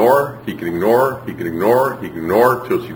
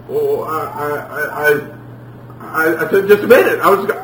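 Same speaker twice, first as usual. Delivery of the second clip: flustered excuse; 4 semitones higher than usual. Acted. Junior explaining himself to mom, mock-flustered stammering. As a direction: stumble into a hammed-up frantic excuse. Child making excuses to mother.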